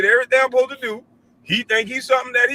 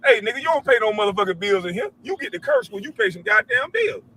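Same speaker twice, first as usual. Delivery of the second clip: scolding son; 4 semitones higher than usual. Retold or imitated. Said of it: "I was cursing just like that".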